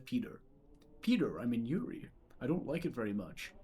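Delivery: a hint of a deadpan talking dog; Brian Griffin voice. Cartoon dog telling Peter he dislikes the woods. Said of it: "He just says".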